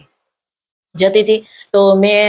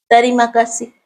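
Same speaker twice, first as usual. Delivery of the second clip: a small, slightly raised greeting; timid greeting; 3 semitones higher than usual. Retold or imitated. The scared little staffer greets her, lightly voiced.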